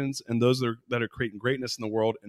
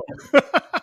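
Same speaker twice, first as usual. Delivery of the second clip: laughter; 5 dB louder than usual. Real, not acted. Puppet show joke.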